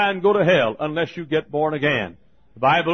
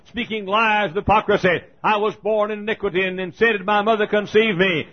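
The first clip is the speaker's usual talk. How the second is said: preaching scripture; 3 semitones higher than usual. Retold or imitated. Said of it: "some leather-lung preacher stands up and says".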